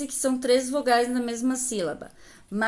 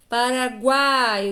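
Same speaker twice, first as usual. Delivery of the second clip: slow syllable-by-syllable reading; 3 dB louder, slower than usual. Shown as a demonstration. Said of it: "teacher sounds out word".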